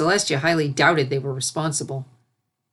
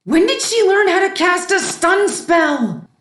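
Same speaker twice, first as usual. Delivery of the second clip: astonished; 13 semitones higher, 7 dB louder, slower than usual. Acted. Celestia's astonished thought.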